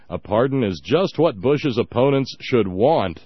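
measured, deliberate reading of an article; reading aloud. Real, not acted. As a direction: read out the quoted column with weight.

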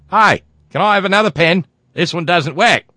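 high, loud whiny complaint; whiny voter. Pretend. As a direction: whine like a fussy voter. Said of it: "I can hear it now".

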